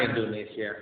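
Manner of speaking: soft, sinking repeat of Indonesia; quiet sorrowful echo. Real, not acted. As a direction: let it fall away. Echoing repeat dropped soft.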